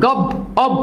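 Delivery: গব, then its ending অব sounded alone; broken-down pronunciation. Shown as a demonstration. Teacher shows students the hidden sound, broken-down pronunciation. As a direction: isolate the sound অব out of গব. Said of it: "দেখো অব উচ্চারিত হচ্ছে".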